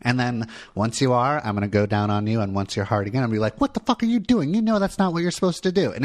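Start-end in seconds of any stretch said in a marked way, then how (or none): 3.6-5.9 hammed-up shocked scolding, much higher and a bit fast; mock outrage. Partner pretending outrage in a bedroom game, hammed-up anger. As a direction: play-act fury at him, teasing. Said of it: "I'm gonna act all mad".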